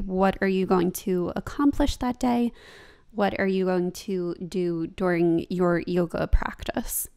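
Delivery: flat monotone robot voice; robotic instructor read. Real, not acted. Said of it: "I sound like a robot".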